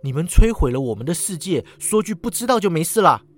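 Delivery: a sharp, displeased reproach; 不悦地责备. Acted. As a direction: scold him for shrugging it off. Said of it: "语气不悦".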